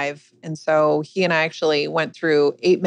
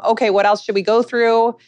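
higher-pitched, easygoing parent voice; casual breakfast chat; 6 semitones higher, 3 dB louder than usual. Retold or imitated. Mother choosing a show with her kids, retold casual chat. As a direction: imitate an unbothered everyday mom. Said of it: "like we were just sitting there having our morning cereal".

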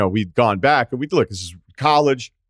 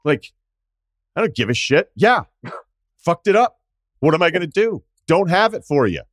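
higher, scornful brush-off of a debt collector; defiant retort; 5 semitones higher than usual. Retold or imitated. Talking back to the debt collector on the phone, mocking and defiant.

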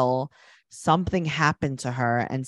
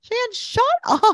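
slow, high exasperated outburst; 4 dB louder, slower than usual. Real, not acted. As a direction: drag it out, high and fed up. Scolding a person on TV.

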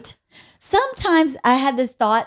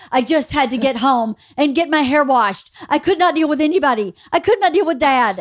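retold exasperated protest; 5 semitones higher, 3 dB louder than usual. Voices daughter's overwhelmed protest.

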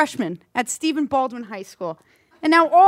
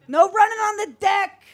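barked poolside order, higher; lifeguard shouting; 5 semitones higher than usual. Acted. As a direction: shout a pool rule across the deck. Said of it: "keeping up your skills, I see".

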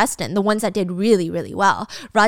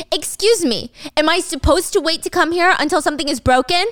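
raised, higher-pitched challenge; indignant objection; 5 semitones higher than usual. Acted. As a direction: challenge the officer in offended disbelief. Acted Gia objects to dismissive officer.

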